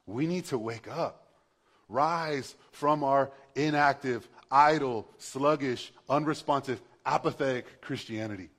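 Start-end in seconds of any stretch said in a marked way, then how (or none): 1.9-8.5 rally the sleepy congregation with force; rousing preacher's call. Real, not acted. Preacher rousing the church to wake.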